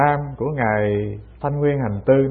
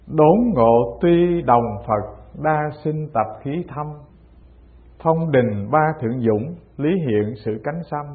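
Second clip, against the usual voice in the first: slow, measured reciting of verse; verse recitation; slower than usual. A narrator's reading. Teacher quotes the old masters' four lines, slow verse recitation. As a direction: recite it slowly, phrase by phrase.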